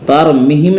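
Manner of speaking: तरमीहिम with a short "mi"; common wrong reading. Shown as a demonstration. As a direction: hurry through the middle vowel of तरमीहिम. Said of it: "नहीं है". (तरमीहिम में मी छोटा, ग़लत)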